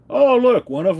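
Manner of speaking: sudden high, loud "oh, look"; surprised. Real, not acted. To viewers, spotting the changed SBA listing, surprised. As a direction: catch it in disbelief.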